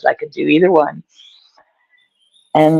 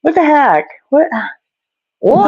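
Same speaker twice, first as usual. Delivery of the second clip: attempted Cockney; 9 semitones higher than usual. Shown as a demonstration. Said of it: "a Cockney accent".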